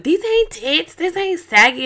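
high-pitched mock protest; indignant husband. Husband protesting to wife about his chest, mock indignant. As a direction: imitate him protesting, voice pushed up high.

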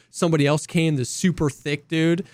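ordinary delivery

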